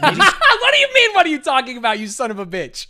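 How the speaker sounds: high squeaky mock voice of himself; laughing high mock impression. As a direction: mimic him as a whiny caricature. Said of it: "This is not how I talk".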